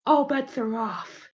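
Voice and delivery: high, slow character voice; in-character warning. Acted. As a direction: pitch it up and draw out the warning. Skit threat, first take.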